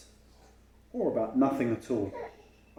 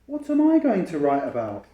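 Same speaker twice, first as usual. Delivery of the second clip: put-on anxious child; 6 semitones higher, 12 dB louder than usual.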